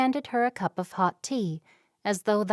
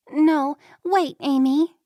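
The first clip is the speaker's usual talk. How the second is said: louder, higher call to stop her; 7 semitones higher, 7 dB louder than usual. Acted. Upset girl calls her friend back from the door, loudly. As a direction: call her back before she leaves.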